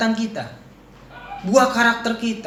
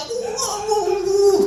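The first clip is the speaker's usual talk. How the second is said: mock shouting; 9 semitones higher, slower than usual. Shown as a demonstration. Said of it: "teriak-teriak".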